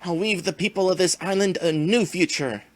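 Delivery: lightly voiced gloating villain; slow theatrical villain menace. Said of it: "let the villain monologue".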